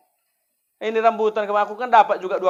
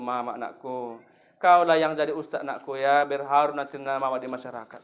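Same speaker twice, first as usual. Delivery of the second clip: lightly voiced mother, soft and low; a mother quietly begging her son; tender mother; 6 semitones lower, 3 dB quieter than usual. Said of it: "Mama memang mantan Kristen ya". (ibu berbisik lembut kepada anaknya)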